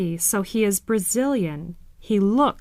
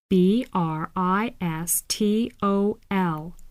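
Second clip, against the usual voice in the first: spelled out letter by letter. Shown as a demonstration. Teacher spelling the word for learners to follow. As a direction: spell each letter clearly. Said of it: "spelling the city".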